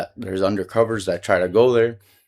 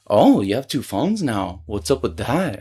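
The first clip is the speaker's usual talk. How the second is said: slow, nosy mock query; drawn-out, swooping "oh"; imitated pointed question. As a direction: mimic someone prying with fake casualness. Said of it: "she asked it like that".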